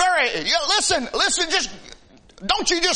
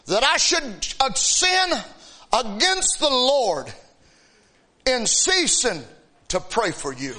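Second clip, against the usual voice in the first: scripture reading. Acted.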